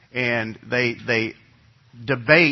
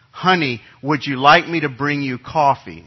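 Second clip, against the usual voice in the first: calling out; 3 semitones higher, 5 dB louder than usual. Retold or imitated. Dad calling out to wife.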